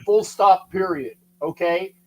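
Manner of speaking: mock Canadian accent, lightly done; a hint of a Canadian accent, half joking. Host jokingly hands down a verdict to the panel in a mild Canadian accent. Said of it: "my best Canadian accent".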